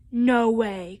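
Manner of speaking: mildly loud, drawn-out refusal; storybook cry of refusal. Acted. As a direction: protest it with a touch of a yell. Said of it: "cried Froggy".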